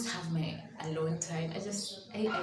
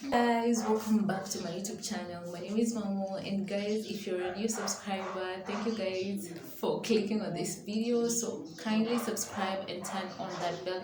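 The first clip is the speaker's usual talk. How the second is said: louder, lifted welcome to the viewers; upbeat vlog greeting; 3 semitones higher, 4 dB louder than usual. Real, not acted. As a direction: open the video with energy. Channel intro greeting to viewers.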